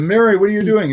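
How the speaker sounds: high, loud quoted question; retold puzzled call. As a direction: call it out to a friend, acted out. Acts out his question at the audition.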